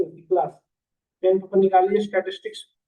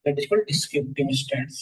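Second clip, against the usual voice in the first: slow dictation; 5 semitones lower, much slower than usual. Shown as a demonstration. Teacher dictating definition.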